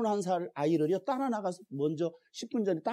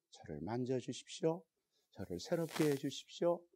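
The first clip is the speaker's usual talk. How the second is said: soft, lowered, earnest prayer; model prayer; 4 semitones lower, 5 dB quieter than usual. Shown as a demonstration. Leading the congregation in a quiet heartfelt prayer. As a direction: pray quietly with a hand on the heart. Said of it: "가슴에다 이렇게 손을 대시고".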